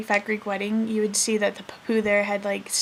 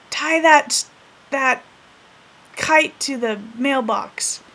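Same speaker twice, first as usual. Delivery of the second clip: higher, loud start, slow finish; grandpa giving orders; 3 semitones higher, 4 dB louder, much slower than usual. Retold or imitated. Grandpa tells neighbor kid what to do, commanding. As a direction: lay down the instruction like an old boss.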